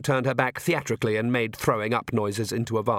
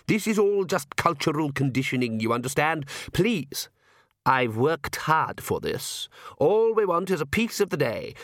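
higher, theatrical vampire father; the Count, exasperated and pleading; 6 semitones higher than usual. A narrator's reading. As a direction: plead with the family, pitch climbing toward a wheedle.

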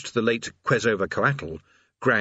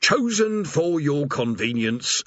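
slow, higher scripted rumble; demon rumble; 4 semitones higher, slower than usual. Acted. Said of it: "Urgle Flogger rumbled".

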